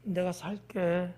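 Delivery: low, soft and slow offer; unimpressive offer. Shown as a demonstration. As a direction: understate it so nobody is impressed. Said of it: "이거 갖고는요, 감동을 안 받아요". (낮고 작게, 밋밋하게 말하기)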